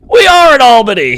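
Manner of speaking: high-pitched mock cheer of local pride; excited crowd. Comic imitating an Albany crowd going nuts, high mock cheer.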